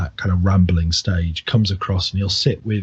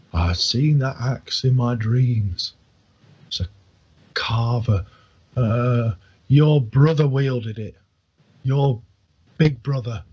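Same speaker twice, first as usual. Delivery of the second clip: dreamy prophecy; 2 semitones higher, 3 dB louder, slower than usual. Acted. Drunk old man's prophetic ramble.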